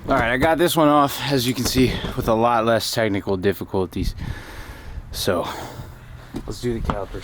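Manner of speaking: breathless from working on the car; out of breath. Real, not acted. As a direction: talk between breaths while working. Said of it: "Sorry I'm gonna be out of breath this whole damn video".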